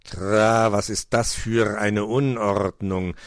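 slow, drawn-out croaking bird voice; indignant raven. A narrator's reading. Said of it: "empörte sich Meister Schwarzrock".

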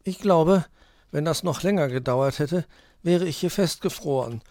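high, mildly whiny complaint; Borstel whining. A narrator's reading. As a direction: complain about freezing, pitched well up. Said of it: "jammerte Borstel".

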